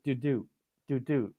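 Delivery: two light falling "doo" notes; bouncing sound. Retold or imitated. Flicking berries across the picnic table, playful bounce noise. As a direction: imitate a berry bouncing twice. Imitates the annoying berry noise.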